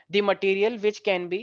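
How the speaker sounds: each phrase spoken very slowly for students to copy; slow, clear classroom dictation. Shown as a demonstration. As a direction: dictate word by word with long pauses. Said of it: "लिखो सारे बच्चे".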